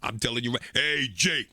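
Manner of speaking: cool Training Day Denzel; smooth and cocky, Denzel style; Denzel Washington voice. Acted. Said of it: "like Denzel".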